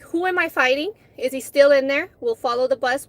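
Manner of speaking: put-on ready to fight whoever hurt her kid; fired-up protective anger; angry. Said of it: "loaded and pissed".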